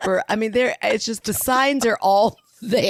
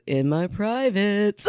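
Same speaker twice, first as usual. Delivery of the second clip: slow, pleased little answer with a laugh; proud child; much slower than usual. Retold or imitated. Mom imitates daughter proudly explaining the packets, slow and pleased. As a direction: say it slowly, proud of yourself. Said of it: "like she's so proud of it".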